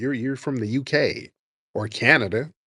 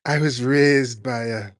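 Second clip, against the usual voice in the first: mock British accent. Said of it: "a British accent".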